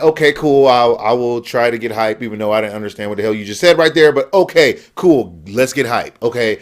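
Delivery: low, underwhelmed going-along; low-pitched, half-hearted agreement; unenthusiastic compliance. Retold or imitated. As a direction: humour him without any excitement. Acting out reluctant compliance with hype.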